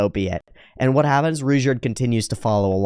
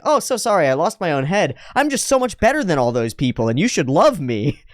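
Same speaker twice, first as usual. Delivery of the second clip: smug mock apology; 5 semitones higher than usual. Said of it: "he's like".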